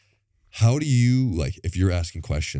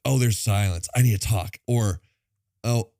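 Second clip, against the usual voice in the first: eager chatterbox; 5 semitones higher, faster than usual. Retold or imitated. Mimics an eager self-centered talker.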